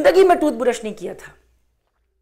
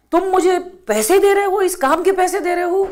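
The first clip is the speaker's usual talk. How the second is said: gentle loving question, pitched higher; said lovingly; 7 semitones higher than usual. Retold or imitated. Old sweeper gently asks the man offering money, lovingly. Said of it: "بڑے پیار سے کہا".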